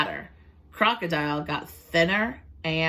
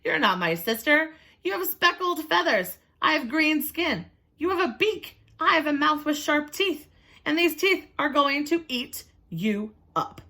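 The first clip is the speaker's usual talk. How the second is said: much higher, mocking crocodile voice; scornful crocodile; 10 semitones higher than usual. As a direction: tease the hen, then threaten. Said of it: "Crocodile laughed".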